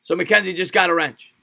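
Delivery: ordinary talk, nothing marked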